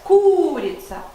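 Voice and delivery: КУ-рица, first syllable high and drawn out; stress on first syllable. Shown as a demonstration. Teacher putting up a stress, first-syllable stress. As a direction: stretch and lift the start of Курица. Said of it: "put a stress".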